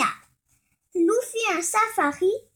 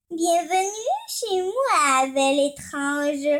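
cooing Yeti. Acted. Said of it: "reroula demoiselle Yeti".

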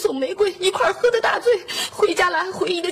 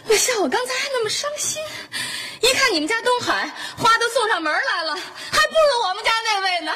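half-crying, half-amused comparison; tearful relief. Acted. Crying guest comparing husbands, tearful. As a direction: speak through leftover tears.

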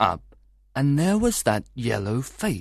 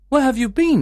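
sudden high, louder question; 13 semitones higher, 5 dB louder than usual. A narrator's reading. Husband questions his wife as she returns at night, challenging. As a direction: challenge her as she comes in, pitch jumping up.

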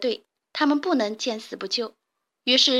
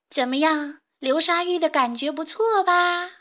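higher, teasing sing-song jeer; mocking taunt; 5 semitones higher than usual. Chick jeers at the weasel sinking in sand, mocking. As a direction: gloat at the trapped weasel. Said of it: "鼻涕虫边嘲笑黄鼠狼".

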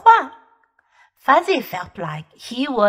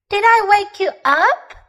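higher, put-on innocent surprise; faked surprise; 7 semitones higher, 4 dB louder than usual. A narrator's reading. Little bear faking surprise to his friend. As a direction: act surprised, badly. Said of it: "trying to sound surprised".

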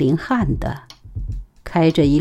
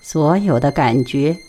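soft-spoken. Acted. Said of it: "他柔声说".

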